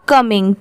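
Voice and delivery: कमिंग blended in one go; whole-word pronunciation. Shown as a demonstration. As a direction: join कम and इंग into कमिंग. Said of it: "पूरा मिला देंगे तो हो जाएगा". (कमिंग मिलाकर बोलना)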